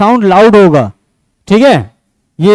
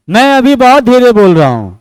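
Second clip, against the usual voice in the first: same words back at full, stronger voice; speaking louder. Shown as a demonstration. Teacher shows students a louder voice, firmly. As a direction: raise the voice to show a louder sound. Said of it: "अभी मैंने जब ज्यादा जोर से बोला ना".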